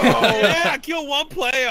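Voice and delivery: high, laughing delight. Real, not acted. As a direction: laugh through the words. Laughs after a kill.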